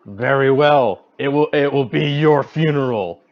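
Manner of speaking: lightly grand, deliberate delivery; hero's acted retort. Player acts reply to dragon.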